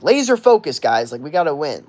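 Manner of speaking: lightly voiced team leader rallying the guys; Tom Brady. Quarterback to teammates while losing the Super Bowl, a hint of rallying. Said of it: "And Tom Brady's like".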